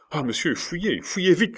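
high-pitched alarmed plea; urgent cry. A narrator's reading. Servant warning his master to flee, urgent cry. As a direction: urge him to run at once. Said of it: "cria le domestique".

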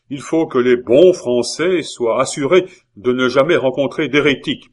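emphatic speech to an assembly; zealous orator. Acted. La Hurière harangues his League brothers, emphatic oratory. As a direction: address the brethren forcefully, hitting key words.

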